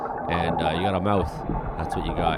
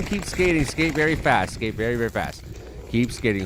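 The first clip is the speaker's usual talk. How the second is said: urging, fading. Real, not acted. Cheering the skater on as the danger fades. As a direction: coax him onward, settling down.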